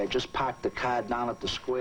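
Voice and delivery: a touch of Boston accent with dropped r's. Shown as a demonstration. The speaker shows John his Boston accent, light Boston accent. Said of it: "How could I get rid of this accent".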